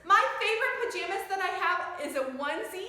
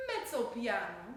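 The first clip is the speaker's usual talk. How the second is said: soft mezzo piano; 6 semitones lower, 6 dB quieter than usual. Shown as a demonstration. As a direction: lower and softer, moderately quiet.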